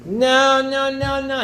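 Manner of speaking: high, loud repeated no; acted furious refusal at the guest; angry refusal. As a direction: slam the door on every plea. Host refuses every offer.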